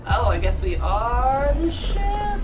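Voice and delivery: slow, loud, high wonder; drawn-out amazed question; surprised realisation. Real, not acted. Realising in game.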